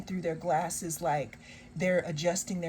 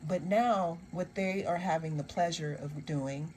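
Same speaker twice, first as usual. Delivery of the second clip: sarcastic. Acted. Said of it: "I'm being sarcastic".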